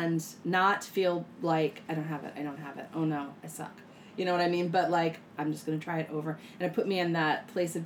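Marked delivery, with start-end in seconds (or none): 1.9-3.7 quieter, mildly defeated mumbling to oneself; understated beginner's despair, voice sinking; discouraged self-talk. Acted. Voicing a discouraged learner's thoughts.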